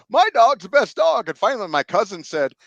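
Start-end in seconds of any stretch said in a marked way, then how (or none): 0.1-1.3 put-on boastful kid, much higher and louder; proud bragging. Boy bragging to friends about his dog, loud and proud. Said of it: "I'm bragging about my dog".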